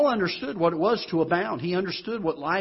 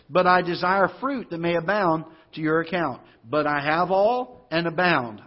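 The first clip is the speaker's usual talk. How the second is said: scripture reading. Acted.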